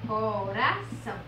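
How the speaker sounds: CORAÇÃO slowly divided, CO-RA-ÇÃO; slow, measured CORAÇÃO in three beats; syllable by syllable. Shown as a demonstration. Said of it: "Perceba que nós abrimos a boca".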